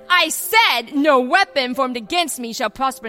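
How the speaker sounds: firm repeated warning. Retold or imitated. Boy turning on the returning bully, firm warning. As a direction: stand your ground, stressing the first words. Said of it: "turned around and said".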